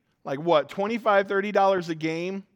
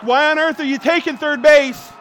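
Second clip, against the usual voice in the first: hammed-up coach voice; 10 semitones higher, 10 dB louder than usual. Voicing coach during video narration.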